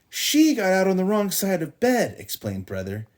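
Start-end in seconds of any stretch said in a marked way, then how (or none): 0.1-2.2 put-on high, loud boy voice; tattling boy. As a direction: tell on her, whiny.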